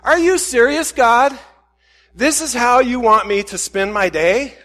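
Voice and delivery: loud, high, indignant mock complaint; mad at God. Preacher retelling his toilet prayer, indignantly mad. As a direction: demand an answer in exasperation. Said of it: "It's kinda mad at God".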